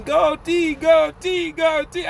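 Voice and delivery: high-pitched cheering chant; cheering yell. Retold or imitated. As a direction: cheer him on like a grandma at a race. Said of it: "Grandma yelling".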